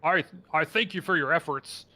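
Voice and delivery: lightly voiced hulking beast, mild indignation building; halting thanks rising into lightly acted outrage; hulking creature. Trapped creature rages at its captor, mildly indignant. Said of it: "hulking, almost gorilla-like figure".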